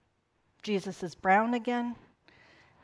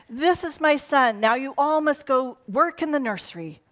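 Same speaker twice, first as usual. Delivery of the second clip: mock bossy God; 6 semitones higher, 4 dB louder than usual.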